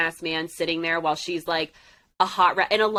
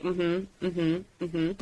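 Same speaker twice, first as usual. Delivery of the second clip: imitating patient listener; 5 dB quieter, much slower than usual. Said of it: "and he was just like".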